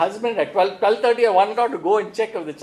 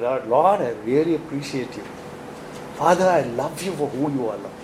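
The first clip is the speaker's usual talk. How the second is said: tender prayer; 5 semitones lower than usual. Shown as a demonstration. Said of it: "it's a very romantic time".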